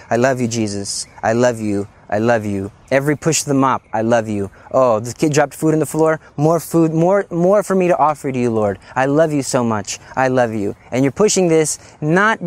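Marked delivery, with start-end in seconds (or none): 0.1-10.7 devoted prayer. Retold or imitated. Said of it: "the person who's going like this".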